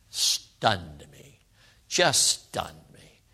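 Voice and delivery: low, soft, lingering on each word; hushed, drawn-out amazement; stunned hush. Real, not acted. Preacher recalling dad's response, stunned and quiet. Recalling father's answer, moved.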